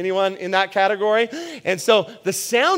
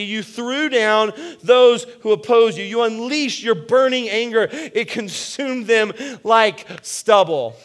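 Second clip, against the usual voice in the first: proclaiming scripture; 3 semitones higher than usual. Acted. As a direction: proclaim the victory song with force. Reads Exodus song aloud.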